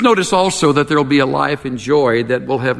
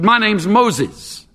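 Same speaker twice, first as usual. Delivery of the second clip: much higher, slow, proud bird voice; drawn out like a prim parrot; 8 semitones higher, much slower than usual. A narrator's reading. Parrot introduces itself to the burglar, slow and high.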